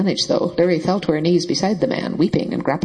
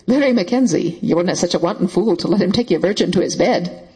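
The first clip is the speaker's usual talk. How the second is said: shocked raised voice. Acted. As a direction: sound appalled. Shocked accusation.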